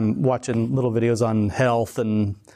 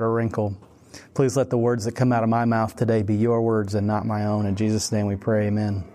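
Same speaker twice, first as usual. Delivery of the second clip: prayer. Acted. Opening prayer before the talk.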